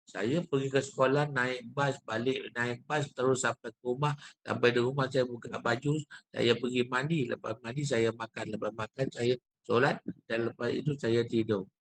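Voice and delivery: every phrase delivered the same, without intonation; monotonous recital. Shown as a demonstration. Teacher giving an example of no intonation, monotonous recital. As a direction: run through the list on one level tune. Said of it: "dia jadi monotonous, sama je".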